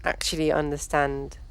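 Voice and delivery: sleepy, slow, trailing off; barely awake, slow speech; tired. Real, not acted. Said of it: "I'm much too tired".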